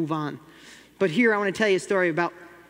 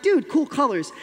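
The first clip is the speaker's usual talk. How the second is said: put-on excited kid; 7 semitones higher, 4 dB louder than usual. Son excited about crayons.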